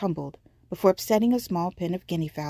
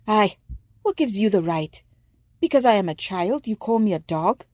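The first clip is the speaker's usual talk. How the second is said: put-on indignant girl; 3 semitones higher, 4 dB louder than usual. Olawu defies the insult.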